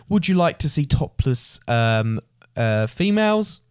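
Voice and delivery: slow, awkward street tout, voice rising on females; hesitant club rep pitch. Retold or imitated. A lightly voiced club rep hesitating to tourists. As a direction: stall before the word females.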